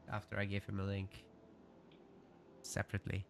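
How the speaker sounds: chewing an apple; mouth full. Real, not acted. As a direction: talk through a bite of apple. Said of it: "because I'm eating an apple".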